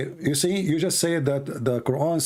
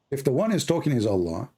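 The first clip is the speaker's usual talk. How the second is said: slowing down into a pointed question; deliberately slow. Shown as a demonstration. Debater repeats his question for the opponent, slowly. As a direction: spell it out slowly, stretching the last words. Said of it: "I will say it slowly".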